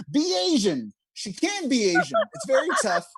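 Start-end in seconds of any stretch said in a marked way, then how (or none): 0.1-0.9 deadpan punchline. Retold or imitated. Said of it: "And I was like".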